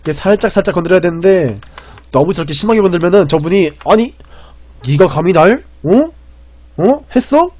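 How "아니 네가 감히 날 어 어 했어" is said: half-hammed menacing challenge to the streamer; mock menacing opponent. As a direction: play the offended rival picking a fight. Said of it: "굉장히 무섭게 나와요".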